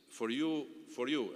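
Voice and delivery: "for you" said as its own phrase and repeated for emphasis; stress on "for you". Real, not acted. Speaker tells graduates opportunities are theirs, emphasizing "for you". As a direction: set "for you" apart with a pause before it, then repeat it. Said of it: "I emphasize the word for you".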